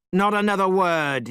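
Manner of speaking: Monkey silencing the priest; angry cry. Acted. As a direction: cut him off sharply. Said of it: "he cried".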